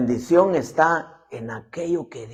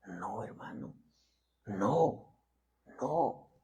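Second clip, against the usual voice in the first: whisper; 6 semitones lower, 15 dB quieter, much slower than usual. Acted. Emphatic hushed denial.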